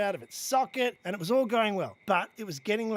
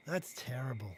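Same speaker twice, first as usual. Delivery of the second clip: ordinary delivery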